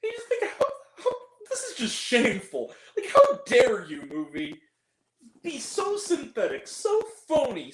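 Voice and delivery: half-laughing, half-crying outrage; a mock sob through laughter; lightly hammed-up anguish; laughing despair. Real, not acted. Outraged at the fake movie.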